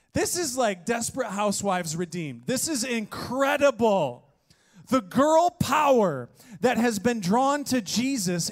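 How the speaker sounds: high and loud, fired up; excited. Real, not acted. Preacher hypes the congregation about girl power, excited and loud. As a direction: lift the room with it.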